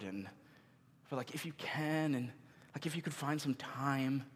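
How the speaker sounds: soft, hesitant prayer; timid half-hearted prayer. Retold or imitated. Believer hesitantly asking a busy God, soft and unsure. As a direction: mumble a prayer that expects nothing. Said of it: "approaching him like".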